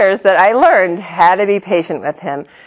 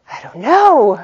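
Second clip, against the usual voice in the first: laughing shrug; 4 semitones higher than usual. Retold or imitated. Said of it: "I was like".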